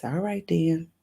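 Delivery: a light hint of Addie, resigned; lightly voiced, shrugging "if you say so"; mild put-on character voice. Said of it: "In my Addie voice".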